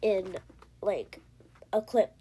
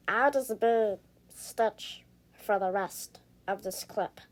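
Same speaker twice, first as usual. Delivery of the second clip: Stitch voice. Pretend. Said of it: "I'm not gonna be in the Stitch voice anymore".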